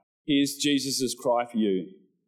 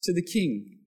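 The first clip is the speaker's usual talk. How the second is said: crowd cheering; 4 semitones higher than usual. Retold or imitated. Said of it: "the crowd were going".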